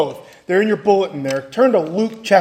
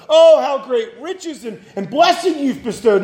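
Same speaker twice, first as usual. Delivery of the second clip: higher-pitched mock admiration; 4 semitones higher than usual. Job mocks his friends' so-called riches and blessing, sarcastic. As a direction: imitate sarcastic, gushing praise. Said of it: "He mocks his friends".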